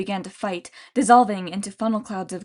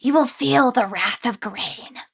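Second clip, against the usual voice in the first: snarling threat; 3 semitones higher, 3 dB louder, slower than usual. Acted. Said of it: "gnashing his teeth".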